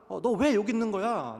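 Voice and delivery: mother Mary scolding her son. Retold or imitated. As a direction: snap at the lost child. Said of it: "라고 어머니".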